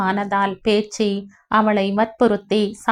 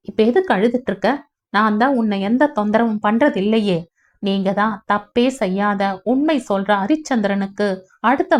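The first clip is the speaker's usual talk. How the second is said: angry retort. Acted. Pugazh angrily scolds Poorani for crying, bitter. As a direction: lash out at her tears. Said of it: "எரிச்சல் கோபமாக மாற".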